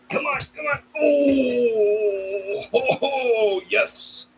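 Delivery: high, sing-song coaxing; high dog-praise voice. Real, not acted. Cheering the dog standing up.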